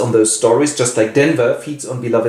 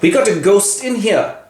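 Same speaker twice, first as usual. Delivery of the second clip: laughing Paul; 6 semitones higher than usual. Acted. Paul voiced, laughing at ghost.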